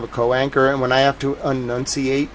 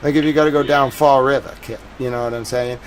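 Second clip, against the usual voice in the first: Boston accent; 3 dB louder, faster than usual. Shown as a demonstration. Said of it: "like, if you're from Boston".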